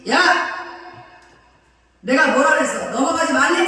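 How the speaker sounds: loud, high scolding shout; stern divine shout of reproach; angry rebuke. Acted. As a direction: bellow it like God rebuking the sea. God rebuking the sea.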